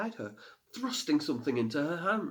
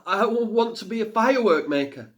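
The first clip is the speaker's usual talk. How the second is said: put-on frightened girl; 10 semitones higher, 8 dB louder than usual. A narrator's reading. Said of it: "she managed to say".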